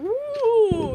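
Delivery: mocking, high, loud whooping cheer.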